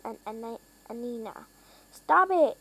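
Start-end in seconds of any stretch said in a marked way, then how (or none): 1.9-2.6 high, louder cry of stop it; yelled. A narrator's reading. Harold yelling at the runaway plane, loud alarmed yell. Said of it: "yelled Harold".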